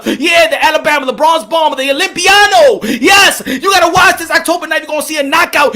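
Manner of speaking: loud, fired-up fight hype, shouting; hype promoter. Acted. Promoter hyping the fight to viewers, loud and fired up. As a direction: sell the big fight like a ring announcer.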